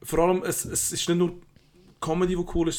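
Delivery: buzzing on coffee, pushing every word; too much caffeine. Real, not acted. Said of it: "ich hab jetzt viel Kaffee".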